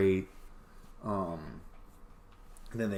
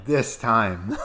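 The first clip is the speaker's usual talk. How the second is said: desperate plea; 6 dB louder than usual. Retold or imitated. Hopeful character voiced in retelling.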